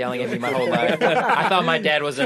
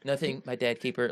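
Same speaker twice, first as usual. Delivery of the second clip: meek reply to dad; 3 semitones lower, 6 dB quieter than usual. Retold or imitated. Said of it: "I'm like".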